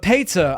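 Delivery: "pizza" said as PAYT-suh; "pizza" with an "ay" in the first syllable; Scottish pronunciation. Retold or imitated. Returning to the Scottish example, "pizza" as PAYT-suh. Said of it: "saying pizza the way you're doing it".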